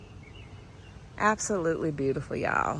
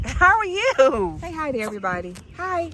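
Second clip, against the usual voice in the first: pet voice; 10 semitones higher, 6 dB louder than usual. Real, not acted. Baby talk to the dog.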